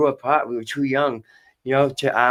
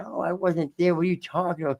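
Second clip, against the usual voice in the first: protesting denial; 6 semitones higher than usual. Retold or imitated. Retold denial when accused.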